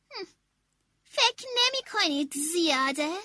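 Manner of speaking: grumbling. Acted. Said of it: "آشپز غرغر کنان گفت".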